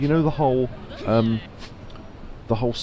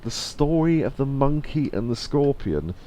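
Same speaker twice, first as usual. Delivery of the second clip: imitated questioning; 4 semitones higher, slower than usual. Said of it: "And then Adam was going".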